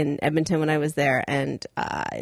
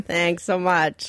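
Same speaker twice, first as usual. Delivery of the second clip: slow drawn-out thanks; much slower than usual. Shown as a demonstration. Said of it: "slow repeat".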